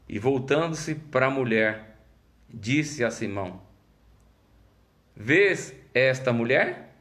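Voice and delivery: drawn out, weighty scripture reading; slow solemn reading. Acted. Pastor reading Jesus' rebuke to the congregation, slow and solemn. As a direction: let every word land slowly.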